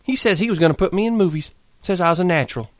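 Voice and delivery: high, rushing dreamy account; eager outpouring. Acted. Curly's wife pours out her past to Lenny, high and eager. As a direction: pour out her dream before he leaves. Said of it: "went on with her story quickly".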